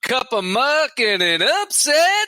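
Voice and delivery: diner cook calling orders. Acted. Diner slang order calls.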